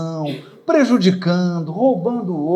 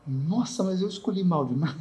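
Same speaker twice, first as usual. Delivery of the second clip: rueful regret; 4 semitones higher, 7 dB quieter than usual. Retold or imitated. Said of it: "você fala assim".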